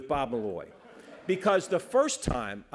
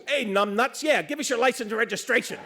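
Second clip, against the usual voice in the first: loud, higher jeering call; heckling shout; 8 semitones higher, 5 dB louder than usual. Retold or imitated. Retired chief heckles a stopped driver over the cop's shoulder, jeering and loud. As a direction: taunt him from behind, loud.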